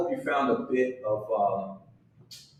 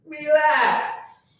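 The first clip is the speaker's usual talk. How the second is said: mock soothing; 11 semitones higher, 3 dB louder than usual. Calming the bass player.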